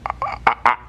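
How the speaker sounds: high, stammering imitation of bewilderment; stunned bafflement. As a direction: splutter upward as if totally dumbfounded. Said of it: "he was just like".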